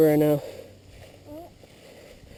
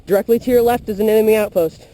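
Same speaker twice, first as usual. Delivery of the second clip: loud, higher warning; urgent callout; 5 semitones higher, 4 dB louder than usual. Real, not acted. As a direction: alert your teammate fast. Warning teammate of enemy outpost.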